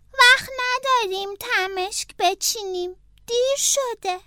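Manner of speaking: the snail warning Franklin they are late; urgent snail. Acted. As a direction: urge him to stop picking. Snail urging.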